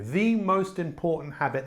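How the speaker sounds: normal talking voice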